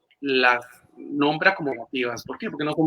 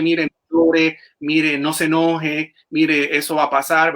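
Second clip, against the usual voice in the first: louder, scolding a relative who is upset; 5 dB louder, slower than usual. Retold or imitated. Therapist imitates scolding a crying relative, louder and sterner. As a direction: tell them off firmly and loudly, mire after mire. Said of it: "No decirle".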